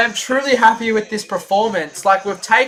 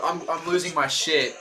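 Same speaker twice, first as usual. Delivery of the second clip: despairing laugh; 6 semitones lower, 11 dB quieter than usual. Real, not acted.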